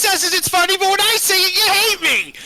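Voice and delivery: high, loud mock complaint; hammed-up high, loud imitation of herself. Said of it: "and I'm like".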